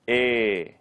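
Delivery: e held out as a long "eee" like "ay". Shown as a demonstration. Teacher showing a diphthong is always long, held e. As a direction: stretch the vowel e. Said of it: "will always be long".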